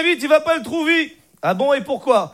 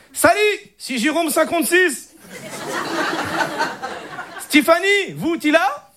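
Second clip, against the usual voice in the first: put-on cousin faking French in Arab accent, higher; a put-on Moroccan Arab accent trying to sound French; 4 semitones higher, slower than usual. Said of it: "Ça donne ça".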